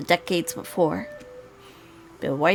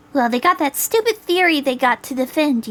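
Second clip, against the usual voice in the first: voiced girl; 5 semitones higher, 4 dB louder than usual. Voicing Julie's scornful explanation.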